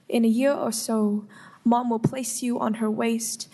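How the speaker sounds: steady spoken-word poem reading; poem recitation. Acted. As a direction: recite the poem evenly, with care. Reads her poem to committee.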